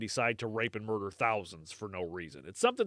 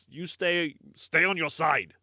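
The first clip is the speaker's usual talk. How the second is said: lightly put-on German accent; slightly raised German-sounding catchphrase; 4 semitones higher, slower than usual. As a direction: quote it with a hint of German. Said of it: "That sounded very German".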